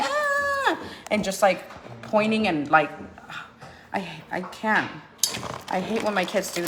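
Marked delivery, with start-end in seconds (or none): 0.0-0.8 imitating a toddler whine. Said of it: "He has a bad habit of being like".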